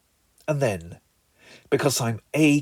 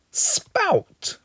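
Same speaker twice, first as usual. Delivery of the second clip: high breathy whispered spout; 3 dB quieter than usual. Acted. Singer whispering spout at the end. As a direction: whisper the word like a secret.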